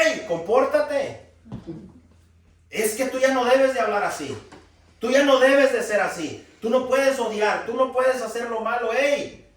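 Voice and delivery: a mock rebuke, loud and high; mock scolding. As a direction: scold the brother like you mean it. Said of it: "le grita".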